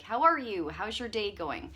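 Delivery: imitating a cheery shopkeeper's greeting; genuinely interested. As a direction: greet them like you really want to know. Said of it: "genuinely interested and is like".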